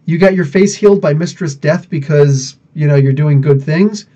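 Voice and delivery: indignant comic-book character objecting; acted protest. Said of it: "he's like".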